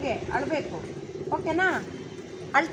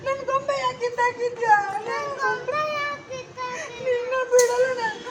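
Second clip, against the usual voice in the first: higher, fiery scolding over a toy; angry scolding; 6 semitones higher than usual. Shown as a demonstration. Director shows a child actor how to scold over the doll angrily. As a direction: demand the doll back, scolding hard. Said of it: "ಜೋರಾಗಿ ಬೈಯು".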